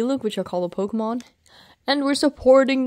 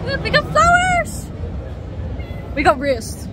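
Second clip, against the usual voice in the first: excited squeal; 10 semitones higher, slower than usual. Real, not acted. Excited over matching flowers.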